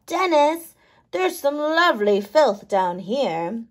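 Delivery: lightly voiced little microbes, curious; small bugs chatting in a mouth; microbe characters. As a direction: play the tiny cavity-diggers with cheeky glee. Dennis and microbes.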